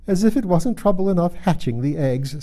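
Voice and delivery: high-voiced, exasperated bird; fretful pigeon. Pigeon complains of the hiding places tried, fretful. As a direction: list your woes in a high pigeon voice.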